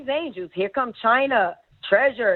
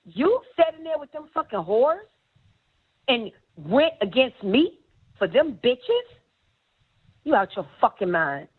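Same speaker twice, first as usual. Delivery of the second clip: angry accusing; 2 semitones higher than usual. Retold or imitated. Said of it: "She's like".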